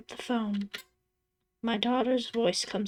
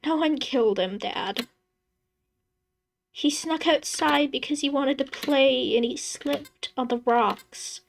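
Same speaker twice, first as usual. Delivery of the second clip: high, tearful pleading through sobs; a daughter begging her father to stop, half crying; 4 semitones higher than usual. Acted. Daughter begs her grieving dad to drop it, tearful and high. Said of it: "She starts to cry".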